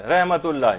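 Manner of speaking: रहमतुल्लाह with a heavy throaty ha; Rahmatullah demo. Shown as a demonstration. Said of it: "हा की आवाज जो एक मोटी सी एक आवाज".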